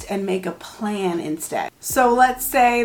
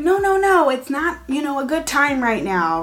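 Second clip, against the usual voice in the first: mock firm refusal; 5 semitones higher than usual. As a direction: shut the kid down as the wrong way. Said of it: "Or instead of saying".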